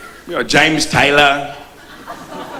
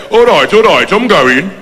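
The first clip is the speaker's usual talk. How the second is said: put-on Brummie accent; 2 semitones higher, slower than usual. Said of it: "in Birmingham, they say".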